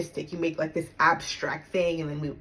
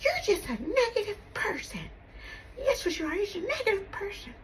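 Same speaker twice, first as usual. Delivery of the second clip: higher, mocking mom voice; mom's accusation; 14 semitones higher, 3 dB quieter, faster than usual. Daughter mimicking mom's put-down, mocking high voice. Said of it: "she's like".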